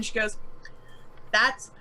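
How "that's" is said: slow, halting agreement; slightly hesitant, drawn-out character line; lightly voiced backup. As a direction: chime in haltingly to back up a friend. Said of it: "Lem is gonna pipe in".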